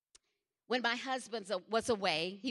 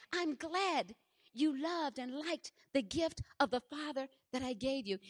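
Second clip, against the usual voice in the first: amazed retelling; 2 semitones higher than usual. Retold or imitated. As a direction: repeat the words in wonder. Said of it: "Can you believe that?".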